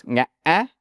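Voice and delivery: nga'ah with a catch in the middle; nga'ah said with a glottal break; Vietnamese broken tone. Shown as a demonstration. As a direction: break the vowel of nga'ah in two. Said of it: "a little break in between".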